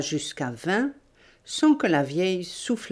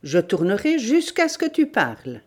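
raised, menacing voice; shouted threat; 4 semitones higher than usual. Acted. Bandit threatening the old woman with more torture, shouting. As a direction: threaten with rising force. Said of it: "cria-t-il".

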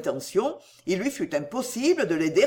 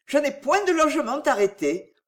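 higher, lightly voiced woman's statement; young woman answering; 7 semitones higher than usual. A narrator's reading. Cécile answering where she meant to lodge, higher-pitched. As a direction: state it in a raised feminine pitch.

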